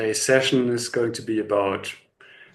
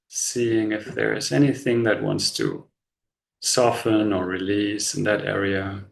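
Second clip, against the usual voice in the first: slow, unhurried body-scan guidance with long pauses; measured meditation voice, leaving space after each instruction; guided meditation; slower than usual. Real, not acted. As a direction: guide them gently into relaxation, phrase by phrase.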